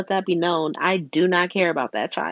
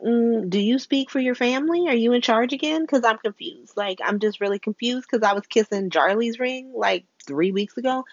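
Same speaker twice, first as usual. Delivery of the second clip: high, sarcastic puzzlement; high voice of fake confusion; mock-confused Missus Wu; 5 semitones higher than usual. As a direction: play dumb to needle him. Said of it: "Missus Wu is like".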